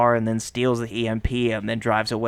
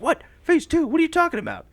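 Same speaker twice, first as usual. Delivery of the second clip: squeaky, much higher panicked Roman; Roman impression; 5 dB louder than usual. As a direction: shriek it like a whiny, scared sidekick. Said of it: "This is my good Roman impression".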